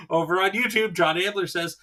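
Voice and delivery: usual speaking voice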